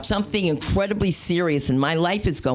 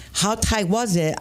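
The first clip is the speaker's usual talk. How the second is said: high, slow strained voice; high strained put-on voice; tight-hair voice; 6 semitones higher, slower than usual. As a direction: talk like your scalp is pulled tight. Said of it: "I start talking like this".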